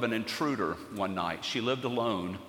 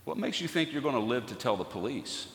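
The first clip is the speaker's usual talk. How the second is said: lower, softer menacing intruder; a lightly voiced cold threat; chilling voice; 3 semitones lower, 6 dB quieter than usual. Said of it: "said in a chilling voice".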